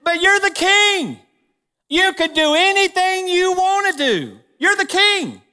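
high, coaxing put-on wife's voice; scheming wife. Preacher voicing Jezebel urging the pouting king, high coaxing voice. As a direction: egg him on sweetly, pitched well up. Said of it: "she says".

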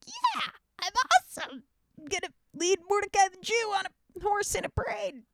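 high put-on boastful voice; smug Haman. Haman gloating over his planned triumph, high and smug. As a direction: preen like a pompous villain. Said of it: "And Haman's like".

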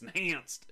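"Enhanced" punched as if written in capitals; emphatic ENHANCED. Real, not acted. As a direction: stress the word "Enhanced" with an exclamation point. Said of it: "I like the way you say enhanced".

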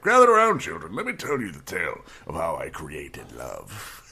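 lightly voiced old grandfather gathering the kids; a hint of a grandpa telling a tale; old grandpa storyteller. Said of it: "this old grandfather now ... be like".

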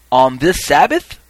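loud, slow question; calling out. Acted. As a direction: announce it to the crowd, rising at the end. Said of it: "he added".

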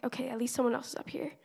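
quick, hushed, relieved whisper. Retold or imitated. Relieved at the altar when another kid joins, fast whisper. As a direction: murmur it fast to yourself.

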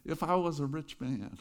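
a light hint of Tevye singing; Tevye impression. Pastor hamming up Tevye for the congregation, lightly voiced. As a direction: lightly voice Tevye from Fiddler on the Roof. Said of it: "Now I'm gonna do my best Tevye".

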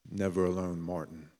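soft, tender reassurance; gentle reassurance. Retold or imitated. God quietly reassuring Martin Luther King, tender and soft. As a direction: speak it softly, like a comforting whisper to a friend.

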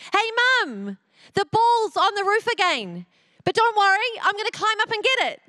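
calling out. Retold or imitated. Son outside shouting to mum about the ball, calling out. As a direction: call through the window to mum.

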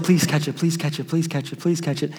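nervous repeated plea, trailing away; pleading. Retold or imitated. Smalls begging the ball to drop into his glove, pleading softly. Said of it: "Smalls is like".

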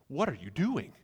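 restrained, bewildered question; aghast. Acted. Friend watching stacks of cash burn, quietly aghast. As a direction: ask it in contained disbelief. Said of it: "you're all sitting there aghast".

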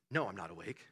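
very soft, low sleepy murmur; pretend-asleep mumble; feigning sleep. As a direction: answer quietly as if half asleep. Plays parent feigning sleep.

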